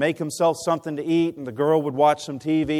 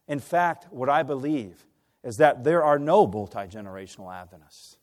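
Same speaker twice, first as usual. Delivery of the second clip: usual speaking voice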